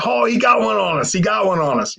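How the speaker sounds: high-pitched imitation of impressed guys; delighted. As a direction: exclaim it like the crowd. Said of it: "they loved it".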